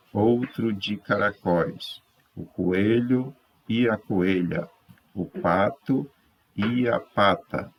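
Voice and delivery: slow, measured textbook reading; reading aloud to pupils. Acted. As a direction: read it out phrase by phrase, with pauses. Reads the textbook story aloud. (leitura pausada para alunos)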